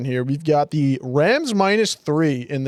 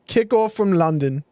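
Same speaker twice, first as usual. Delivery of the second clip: a hint of a British accent that lands Australian; British accent attempt. Dared by friends to say it British, a faint attempt at a British accent. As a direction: try a British announcer accent but slip toward Australian. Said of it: "Bro's Australian".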